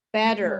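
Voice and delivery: "Better" with the T softened to a quick tap; "Better" as a demo word, no crisp T; no T sound. Shown as a demonstration. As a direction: say "Better" American style, like "bedder". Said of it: "There's no sound of T".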